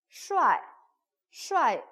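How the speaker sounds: 슈아이 falling sharply, loud; fourth tone. Shown as a demonstration. Teacher models 슈아이 with a falling tone. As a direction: drop 슈아이 hard in the fourth tone. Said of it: "사성 슈아이".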